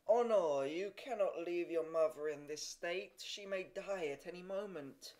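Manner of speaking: doctor warning the son his mother may die; urgent doctor. A narrator's reading. Doctor raises his voice to the son, urgent.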